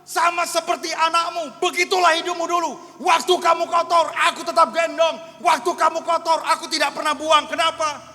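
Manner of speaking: impassioned high, loud proclamation; Holy Spirit. Acted. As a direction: thunder it out as God addressing His child. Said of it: "tiba-tiba seperti Roh Kudus bukakan".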